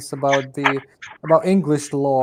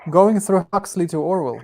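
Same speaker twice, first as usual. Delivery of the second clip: chewing while talking; 3 semitones higher, 4 dB louder than usual. Real, not acted. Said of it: "Sorry, I'm chewing apples".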